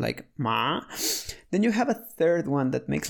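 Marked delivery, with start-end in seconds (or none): 0.4-0.8 "ma." rising like a question; rising second-tone "ma.". Shown as a demonstration. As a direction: lift "ma." upward as if asking. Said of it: "more like a question".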